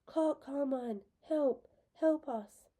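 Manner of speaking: high, loud desperate cry; screaming for help. A narrator's reading. Haymitch screams for help as Lenore Dove collapses, loud and desperate. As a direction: scream it across the meadow. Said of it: "I throw back my head and scream".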